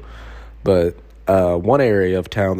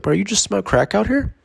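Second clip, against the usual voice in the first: casual; 11 semitones higher than usual. Retold or imitated. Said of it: "I was casual".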